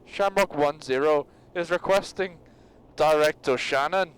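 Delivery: slow, unconvincing Irish radio call; bad Irish accent. Reading out a radio call, poor Irish accent. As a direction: attempt Irish on a pilot's request. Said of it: "That was not Irish".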